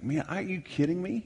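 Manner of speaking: a husband fuming at the ringing phone; agitated exasperation. Retold or imitated. To himself, at his wife's call, in exasperation. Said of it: "I remember just getting so agitated".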